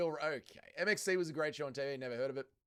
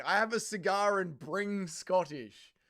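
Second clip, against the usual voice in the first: slow puzzled reread; 4 semitones higher, 4 dB louder, slower than usual. Shown as a demonstration. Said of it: "What are you even saying?".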